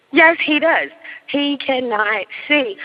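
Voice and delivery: high "Yes", then slow "He cannot see"; emphatic confirmation. Real, not acted. Storyteller insists he is blind, "cannot see" slowly and emphatically. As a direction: spell out "He cannot see" word by word.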